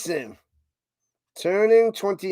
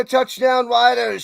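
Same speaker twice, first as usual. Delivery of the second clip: Touchdown, Riders called out higher and louder; excited touchdown call; 6 semitones higher, 5 dB louder, slower than usual. Real, not acted. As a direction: shout the score like the announcer.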